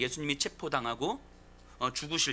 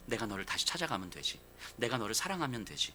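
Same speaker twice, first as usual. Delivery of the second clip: soft reassurance; 6 semitones lower, 5 dB quieter than usual. Acted. Jesus voiced reassuring Peter.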